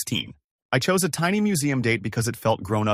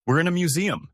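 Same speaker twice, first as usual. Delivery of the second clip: a touch of a raised snap at the ex-husband; sharp retort, mildly voiced; snapped; 8 semitones higher than usual. A narrator's reading. The ex-wife snapping back at the new date, lightly voiced. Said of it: "Ivy snapped".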